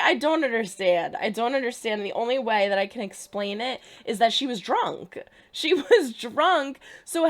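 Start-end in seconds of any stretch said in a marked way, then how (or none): 0.0-1.2 frustrated outburst. Real, not acted. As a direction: yell "I don't understand" in disbelief.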